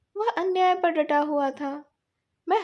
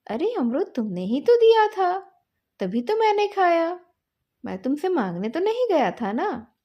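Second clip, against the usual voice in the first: higher, louder defensive protest; indignant retort; 4 semitones higher, 4 dB louder than usual. Acted. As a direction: throw the blame right back. Boys quarrel over the guava.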